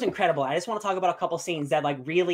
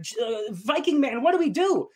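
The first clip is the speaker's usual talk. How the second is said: mock panic; 7 semitones higher than usual. Panicked general asks lord.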